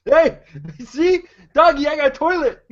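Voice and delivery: high, dopey goon voice; a dim henchman showing off his prize; dumb guy voice. Acted. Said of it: "best dumb guy voice".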